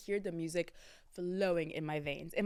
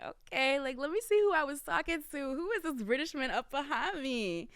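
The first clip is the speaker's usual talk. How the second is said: high, giddy singsong curiosity; eager anticipation; 8 semitones higher than usual. Acted. Host opens her phone to see the British man, playfully eager. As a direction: act out excited snooping, pitched up. Eagerly checking who she met.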